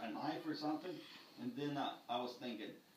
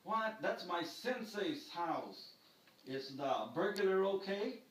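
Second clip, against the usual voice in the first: surprised; 4 semitones higher, slower than usual. Retold or imitated. Dispatcher recognizes his teacher's address.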